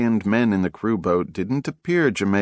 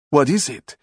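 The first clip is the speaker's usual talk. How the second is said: nephew's voice, startled; 6 semitones higher, 3 dB louder than usual. Acted. Frightened nephew on heaving boat.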